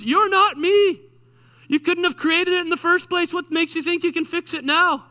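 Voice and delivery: a preacher's voiced Jesus answering the worn-out believer. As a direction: play Jesus setting them straight. Jesus voiced answering, acted dialogue.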